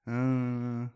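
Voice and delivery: long drawn-out numb "uh"; numbed-out drinker. Shown as a demonstration. Man demonstrating the Arizona vibe, numbed-out drone. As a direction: imitate a drinker's dulled drone. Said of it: "have a little bit of that".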